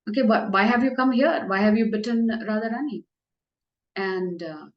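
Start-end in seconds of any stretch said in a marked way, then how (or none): 0.1-3.0 lightly raised, sweet feminine voice; a hint of a coy lady asking the snake; mildly higher voiced chaste woman; Krishna as Vindhyavali. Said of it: "So as Vindhyavali, he asks".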